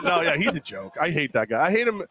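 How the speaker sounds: usual speaking voice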